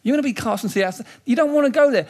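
urgent, rising warning; warning voice of Jesus. Retold or imitated. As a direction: press the danger on them. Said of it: "when Jesus sort of says".

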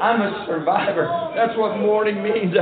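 forceful, emphatic pulpit delivery; fervent preaching. Real, not acted. Preacher declaring what morning means, fervent preaching. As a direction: drive each declaration home like a revival preacher.

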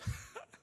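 short, breathy acted chuckle; a quick put-on snicker; God's mocking laugh. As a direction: laugh briefly as if amused by someone's plans. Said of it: "and God goes".

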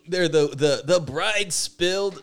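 high-pitched, slowed mock wail of dismay; mock panic. Imagined wedding guest fretting over the bride's dress, mock panic. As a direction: ham up a guest's horror. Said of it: "just imagine it".

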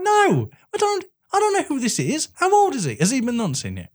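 high-pitched disbelief through laughter; laughing mock parent. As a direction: squeal it while laughing at the idea. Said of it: "I'd be like".

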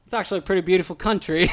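quick imitation of a British concierge; amateur British accent, fast. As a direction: rattle it off in a bad British accent. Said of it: "how bad my accent is".

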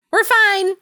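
snappy, high brush-off; curt brush-off. Acted. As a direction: cut her off, high and sharp. Regina's curt reply read out.

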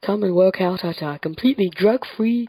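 a hint of hammed-up advertiser; advert voice. Podcaster mimicking dodgy gym ads to co-host, mock sales pitch. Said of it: "I've seen ads which say".

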